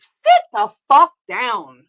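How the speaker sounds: slow, hard-set order to sit down; firm angry command. Real, not acted. Streamer snapping at chat, slow and firm. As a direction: lay it down slowly and coldly.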